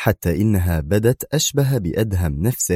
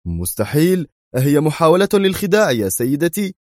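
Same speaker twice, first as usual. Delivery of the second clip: indignant outcry; 9 semitones higher than usual. A narrator's reading. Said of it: "وهتف في سخط".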